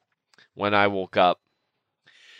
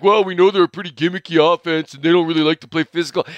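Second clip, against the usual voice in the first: mocking Devin White; 4 semitones higher, 3 dB louder, faster than usual. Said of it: "Devin White, is like".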